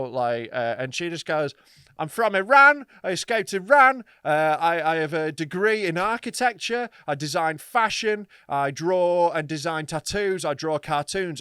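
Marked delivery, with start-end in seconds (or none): 2.0-11.4 loud, earnest list of boasts, slowing down; hammed-up proud self-introduction; mock earnest boasting, louder and higher at first; imitating the woman.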